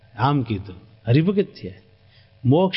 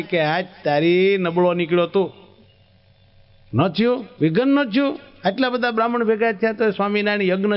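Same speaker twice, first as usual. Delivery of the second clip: higher, rising indignant rebuke of a weak nephew; angry scolding; 4 semitones higher than usual. Acted. Uncle berates nephew for not disrupting the yagna, indignantly. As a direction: scold him for failing to spoil it.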